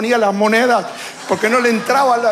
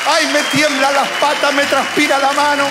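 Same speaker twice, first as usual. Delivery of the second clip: higher-pitched, hammed-up panic; mock fretting in a raised voice; acted nervousness; 7 semitones higher, 3 dB louder than usual. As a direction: play a nervous wreck begging off. Acts out his own stage fright.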